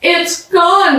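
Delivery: high, tight voice fighting tears; holding back tears. Acted. The speaker after the search fails, holding back tears. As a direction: say it while trying not to cry. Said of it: "trying hard not to cry".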